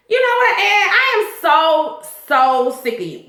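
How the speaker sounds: high, slowed, fed-up outburst. Real, not acted. The vlogger telling Ed off directly, high and slowed. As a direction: drag out how sick of him you are.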